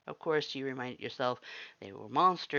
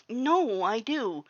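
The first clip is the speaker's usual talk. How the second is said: higher and louder, bracing; nervous resolve; 10 semitones higher, 8 dB louder, much slower than usual. Acted. New hire steels nerves and tells Sans yes. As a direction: force it out to prove you're brave. Listener forcing courage.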